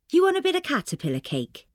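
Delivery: mother offering cake in an exaggerated Welsh accent. A narrator's reading. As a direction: ham up the Welsh accent like a bad B B C Wales sitcom. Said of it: "Her accent sounds odd, exaggerated".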